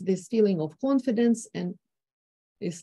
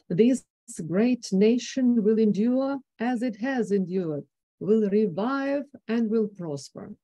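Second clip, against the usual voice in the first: higher, rising, uplifting quote of a president; lifted confident voice; 3 semitones higher than usual. Retold or imitated. Lecturer quoting Roosevelt to the class, lifted and confident. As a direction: lift the voice with pride and confidence. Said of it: "he uses lifted voice level and rising tones".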